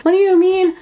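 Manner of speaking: high-pitched startled demand; freaking out. Retold or imitated. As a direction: act out someone freaking out. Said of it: "she's, like, freaking out".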